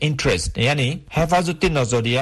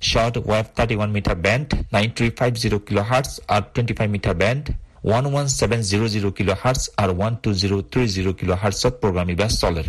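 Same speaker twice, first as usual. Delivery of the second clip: am radio; 4 semitones lower than usual. Real, not acted. Short wave thirty one metre বেণ্ড.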